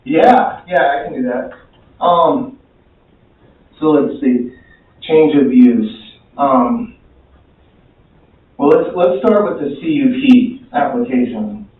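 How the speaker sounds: winded, short of breath; talking while catching breath. Real, not acted. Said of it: "Excuse me, I'm catching my breath".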